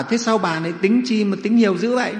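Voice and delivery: high, loud complaining question; exasperated protest. Acted. Miser husband objecting to his wife's count, exasperated. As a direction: object as if the cost hurts.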